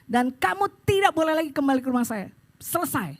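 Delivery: stern retold warning; firm, final telling-off; firm rebuke. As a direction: lay down the rule and close the matter. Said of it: "saya tegas".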